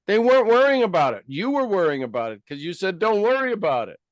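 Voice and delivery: loud, high-pitched, fast retort; hammed-up indignant outburst; exasperated mock scolding. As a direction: throw it back in mock exasperation, voice leaping up. Mock scolding over worrying.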